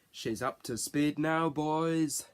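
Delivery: lightly faked Scottish catchphrase; a milder go at a bad Scottish accent. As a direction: toss it out in a mock Scottish accent, last word drawn out. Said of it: "put on my best Scottish accent".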